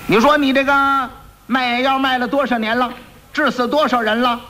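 high stern questioning; stern interrogation. Acted. Magistrate interrogating the kneeling quack doctor, high stern questioning. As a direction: grill the accused.

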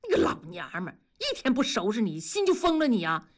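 quick, angry scolding rising in pitch; angry berating. Acted. Husband berating his wife as he kicks, angry.

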